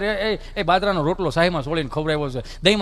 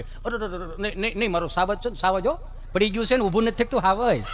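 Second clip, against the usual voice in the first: softer, cooing comfort; soothing mother; 4 dB quieter than usual. Acted. Mother softly comforts her fallen son, a hint of cooing. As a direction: hush the little one gently.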